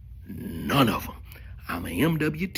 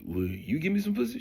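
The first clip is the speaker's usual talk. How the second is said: high pleading ask; mock plea; 8 semitones higher, faster than usual. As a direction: beg her in a raised, hopeful voice.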